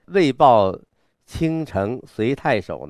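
slow recital with a long pause after; pause before next line. Shown as a demonstration. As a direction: let the line end and hold a big pause. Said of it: "和前面应该有一个大的停顿". (念完停顿一下)

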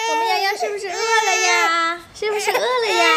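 put-on high, lilting question to a baby; cooing baby talk. Mother asking baby if hungry, high coo.

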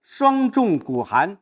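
recitation demo. Shown as a demonstration. Teacher demonstrating a line of the poem, slow recitation. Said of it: "只有轻读声音才没起来".

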